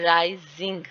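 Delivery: राइजिंग with a stretched, stressed राइ; stress on first syllable. Shown as a demonstration. Teacher showing pitch movement, first syllable of राइजिंग stressed. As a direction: lean on राइ, then let जिंग follow separately. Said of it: "इसकी जो pitch है वो ज़्यादा है".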